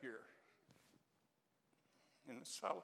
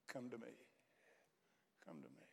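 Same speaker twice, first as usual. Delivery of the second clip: soft, hushed invitation falling much lower; still small voice; 3 semitones lower, 10 dB quieter than usual. Acted. Preacher voicing God's inner call to the heart, still small voice. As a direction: let it sink to a gentle, low near-whisper. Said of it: "still small voice that whispers in your heart".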